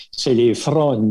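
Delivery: fronnes said slowly, the Acadian word for waves; drawn out and deliberate, fronnes with an open o. Shown as a demonstration. Acadian man naming the waves in his own word, slowly. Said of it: "on dit pas les vagues à la baie Sainte-Marie".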